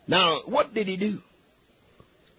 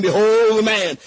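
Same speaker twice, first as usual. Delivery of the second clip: a firm, louder announcement of Behold the man; Pilate proclaiming; 4 dB louder than usual. Retold or imitated. Preacher voicing Pilate to the congregation, a firm proclamation. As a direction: ring out Behold the man as Pilate presenting him. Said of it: "and Pilate saith unto them".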